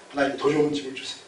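low, hushed plea to God; mock humble prayer. Acts out prayer for bigger house.

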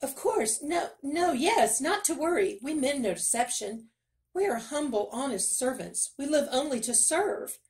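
high, eager, fawning servant voice; fawning miller. Acted. Miller grovelling before the king, high and fawning.

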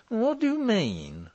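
high, slow alarmed question; hoarse cry. A narrator's reading. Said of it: "cried Morris hoarsely".

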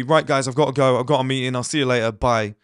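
mildly curt exit; assertive sign-off. Shown as a demonstration. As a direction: cut the chat short decisively. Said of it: "you gotta be really assertive".

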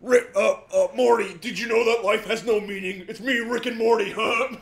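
a lightly voiced drunk frat boy. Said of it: "You sound like a drunk frat boy".

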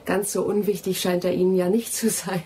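laughing teasingly. Acted. To Anthony about his manuscript, laughing teasingly. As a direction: tease him with a chuckle.

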